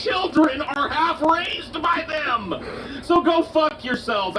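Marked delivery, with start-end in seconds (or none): 0.0-2.5 emphatic rant. Real, not acted. Ranting at the pundit.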